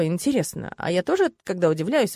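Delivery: plain reading voice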